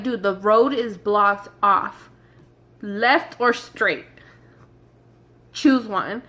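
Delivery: slow, spelled-out exasperation; exasperated. Retold or imitated. Driver fed up with a truck refusing the detour, exasperated. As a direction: lay it out slowly, fed up with the driver.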